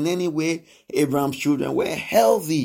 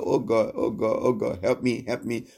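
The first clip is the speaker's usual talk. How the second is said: mock begging; 3 semitones lower than usual. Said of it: "Jacob that went to beg God".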